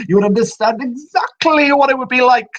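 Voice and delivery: a spirit taunting a fellow abandoned soul; eerie spirit voice. Acted. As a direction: lean into it like a bitter phantom. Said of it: "his voice echoes once again".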